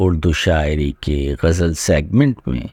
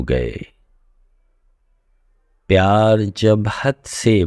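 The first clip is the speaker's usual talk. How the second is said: measured Urdu poetry reading, lingering on phrases; ghazal recitation; 2 semitones higher than usual. Acted. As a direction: recite the couplets unhurriedly, pausing between half-lines. (ठहर-ठहर कर शायराना अंदाज़ में ग़ज़ल पढ़ना)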